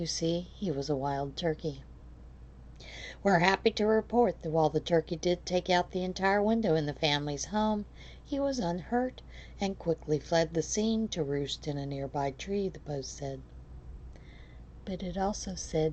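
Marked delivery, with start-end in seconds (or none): none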